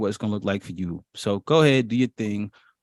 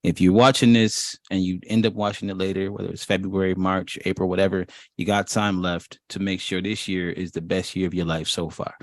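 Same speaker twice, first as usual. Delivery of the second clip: booming motivational speech; 2 semitones lower than usual. Acted. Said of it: "go into my motivational mode".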